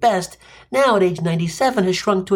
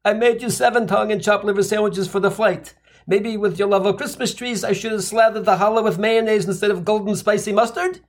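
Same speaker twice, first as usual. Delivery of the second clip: raised, proud mom offering food; proud Jewish mother; 5 semitones higher than usual. Retold or imitated.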